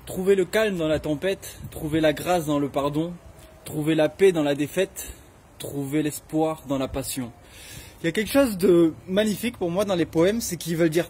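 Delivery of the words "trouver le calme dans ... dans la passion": measured, lower-pitched poem reading with pauses between lines; understated poetry recitation; poem recital. Real, not acted. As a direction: recite your own verse, line by line. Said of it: "reprendre mon dernier poème qui disait".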